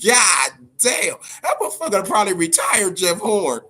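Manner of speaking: a shouted, crying-out God damn. Retold or imitated. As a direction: belt it out like he did back then. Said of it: "I said".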